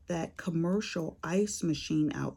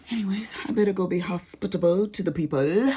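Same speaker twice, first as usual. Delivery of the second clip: unvoiced whispered aside; 3 semitones higher, 4 dB louder, faster than usual. Real, not acted. Mother hurries off to host guests, whispered. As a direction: breathe it like a secret.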